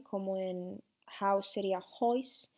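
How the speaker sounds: hois said slowly with an oi sound; Irish oi in hois, slow; Irish vowel. Shown as a demonstration. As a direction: stretch hois out, Irish style. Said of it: "el sonido O es transformado en OI".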